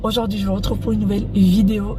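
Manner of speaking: just woke up, creaky fry; vocal fry. Real, not acted. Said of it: "pour ma voix du matin".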